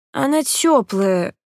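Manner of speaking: indignant complaint. A narrator's reading. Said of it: "возмутилась фиалка".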